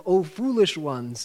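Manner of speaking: slow, weighted "foolish ones"; emphasized words. Shown as a demonstration. Teacher urging thought about those words, stressing FOOLISH. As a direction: dwell on "foolish" with deliberate emphasis. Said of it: "emphasizing each word as you do it".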